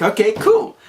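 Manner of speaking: chirpy. Retold or imitated. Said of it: "So then I'm like".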